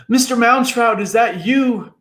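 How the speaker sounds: high, loud frightened call; crying out. A narrator's reading. Tom calls up to the giant figure, high and loud. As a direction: cry out up into the sky. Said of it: "cried Tom".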